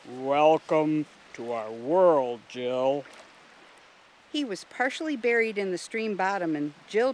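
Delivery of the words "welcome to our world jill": dignified, polite mussel in a low, slow voice; deep, drawn-out, stately creature voice; Russell. A narrator's reading. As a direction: welcome them slowly and deeply, with old-world courtesy. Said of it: "a very dignified rabbit's foot mussel ... said politely".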